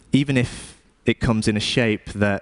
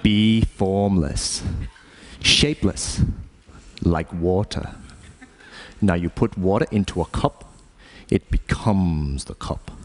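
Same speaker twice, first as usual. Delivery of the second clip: Bruce Lee; 2 semitones lower than usual. Acted. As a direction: intone it like a kung fu master. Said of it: "philosophy lessons from Bruce Lee".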